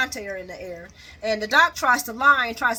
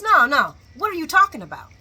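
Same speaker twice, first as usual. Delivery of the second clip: loud, raised protest; mock heated denial; 4 semitones higher, 8 dB louder than usual. Man denying it back to her, loud mock protest. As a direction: push back loudly, hammed-up.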